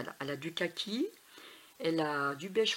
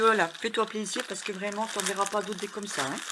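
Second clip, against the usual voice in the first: excited self-talk; 3 semitones higher, 5 dB louder than usual. Retold or imitated. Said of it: "j'ai dit".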